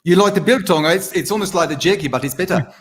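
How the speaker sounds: put-on South African accent. Showing off an accent over biltong, South African accent. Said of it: "I can do South, the biltong".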